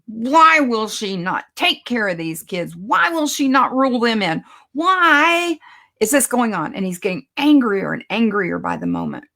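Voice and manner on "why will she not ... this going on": irritated businessman's thoughts. Retold or imitated. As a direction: build to an annoyed outburst at the end. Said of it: "he's just thinking".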